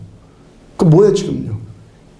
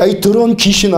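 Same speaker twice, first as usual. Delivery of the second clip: a touch of stern scolding, with "더러운" leaned on; play-acting a sharp rebuke of a demon; mock angry rebuke. Shown as a demonstration. Preacher scolding a dirty spirit before the congregation, mock angry. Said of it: "이렇게 화를 팍 내니까요".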